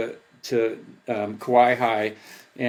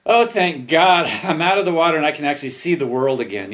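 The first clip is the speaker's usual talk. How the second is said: relieved; 4 semitones higher, 4 dB louder than usual. Retold or imitated. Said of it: "that huge moment of relief".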